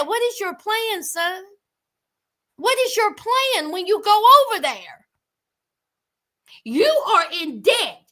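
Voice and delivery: emphatic, mildly scolding questions; retold fatherly scolding. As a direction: act out an exasperated dad grilling his son. Dad scolding son, retold.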